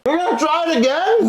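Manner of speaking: high, fast, disbelieving; surprised. Real, not acted. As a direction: blurt it out, shocked. Surprised at friend.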